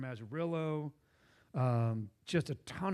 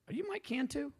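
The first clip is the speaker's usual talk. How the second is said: excited; 13 semitones higher than usual. Retold or imitated. Meeting his skateboarding idol.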